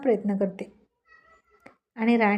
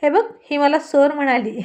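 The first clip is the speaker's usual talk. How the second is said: loud, higher call to his mother; teasing shout; 5 semitones higher, 7 dB louder than usual. Acted. Rohit calls loudly to his mother to tattle, teasing shout. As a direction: yell out to tattle on her. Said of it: "ओरडून म्हणाला".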